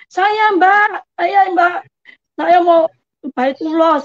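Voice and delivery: lantang menyahut. Retold or imitated. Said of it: "Yang ngacungnya tinggi dan suaranya keras". (menyahut lantang, menirukan diri sendiri)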